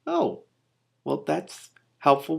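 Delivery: wry. Acted. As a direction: drip a little irony. Sarcastic relief.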